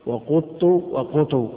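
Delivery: "وقط وقط" said slowly as wa-quttu, wa-qutu; "قط" with damma, doubled then light ta; variant pronunciations. Shown as a demonstration. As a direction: draw out both variants of "قط", u after the qaf. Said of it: "مرفوعة خفيفة محذوفة منها".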